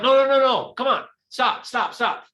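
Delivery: high, loud pleading stop; urgent calling out. Retold or imitated. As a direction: shout them down over clapping. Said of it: "And he was like".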